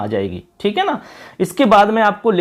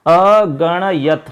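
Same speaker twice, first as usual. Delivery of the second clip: slowly sounding अगणयत; slow dictation; much slower than usual. Shown as a demonstration. Teacher dictates the word for students to write. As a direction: stretch अगणयत syllable by syllable. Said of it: "यहाँ से लिखना है".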